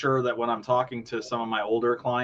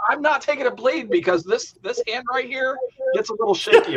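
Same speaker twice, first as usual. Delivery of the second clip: laughing; 12 semitones higher than usual. Real, not acted. Joking about his shaky hand.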